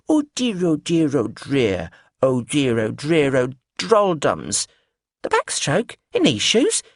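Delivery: put-on high, slow, batty old dear; sing-song dotty lady; eccentric old lady voice. Biscuitine's dotty rambling.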